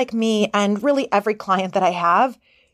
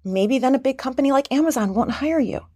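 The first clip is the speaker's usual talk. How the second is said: worried inner voice; 4 semitones higher than usual. Pretend. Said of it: "It's saying".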